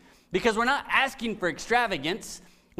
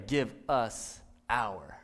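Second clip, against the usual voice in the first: soft slow prayer; 8 semitones lower, 5 dB quieter, much slower than usual. Shown as a demonstration. Quoting the prayer slowly.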